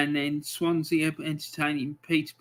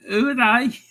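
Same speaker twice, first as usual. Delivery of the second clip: higher, mock Scouse voice for Accrington Stanley; terrible Scouse accent; 6 semitones higher, 5 dB louder than usual. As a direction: ham up a bad Liverpool accent on Accrington Stanley. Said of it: "my terrible Scouse accent".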